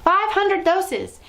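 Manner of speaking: high, loud and slow triumphant yell; Grand High Witch yelling to her witches. A narrator's reading. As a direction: stretch it out in gleeful triumph. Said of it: "the Grand High Witch yelling".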